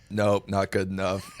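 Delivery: flat drill instructor monotone; deadpan, no change in tone. Retold or imitated. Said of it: "In monotone voice".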